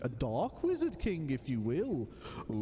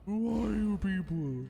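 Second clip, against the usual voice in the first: louder, higher and slow, hammed-up bewilderment; loud slow mock alarm; 6 semitones higher, 4 dB louder than usual. Player hamming up confusion at teammates, loud and slow. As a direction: cry it out like a stage drama.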